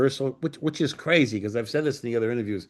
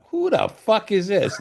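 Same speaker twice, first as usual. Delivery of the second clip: high, slow, exasperated demand; annoyed retort; 10 semitones higher, 4 dB louder, slower than usual. Retold or imitated. Writer answers a suspected four a.m. prank call, high exasperated demand. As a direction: stretch it out, fed up with a suspected prank. Thinks a friend is pranking him.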